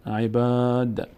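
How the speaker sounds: عباد spelled out slowly with the long a held; slow, clear teaching read of عباد; careful Quran-class reading; slow recitation. Shown as a demonstration.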